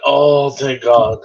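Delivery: slow, relieved, breathing it out; relieved sigh. Retold or imitated. Father hearing his newborn finally cry, slow relief. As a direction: let the relief pour out slowly. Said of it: "And I went".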